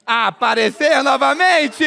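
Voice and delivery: drawn-out stage-magic announcement; magician's reveal. Pretend. Magician making ketchup reappear, slow proclamation. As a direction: stretch it out like a conjuror's big finish.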